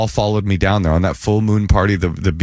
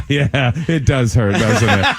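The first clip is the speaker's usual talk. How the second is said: slow chuckling reply; laughing knowing; 3 semitones higher, slower than usual. Retold or imitated. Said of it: "They go, they laugh".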